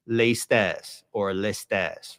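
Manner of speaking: "lestes" slowly as lay-STESS, stressed at the end; mimicked older pronunciation. Shown as a demonstration. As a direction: give "lestes" an ay first and a stressed open e last. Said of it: "mimicking a pronunciation that would".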